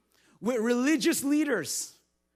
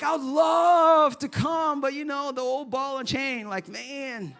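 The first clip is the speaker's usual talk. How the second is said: laughing mock excuse; 3 semitones higher, slower than usual. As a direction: laugh while faking regret. Mock excuse about the wife.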